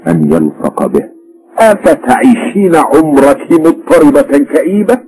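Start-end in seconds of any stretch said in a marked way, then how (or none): 1.6-5.0 irritated. A narrator's reading. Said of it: "فقال الرجل بغيظ".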